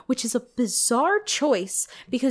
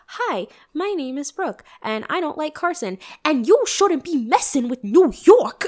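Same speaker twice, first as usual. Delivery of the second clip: mock New York accent; 3 semitones higher, 4 dB louder than usual. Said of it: "she'd be like".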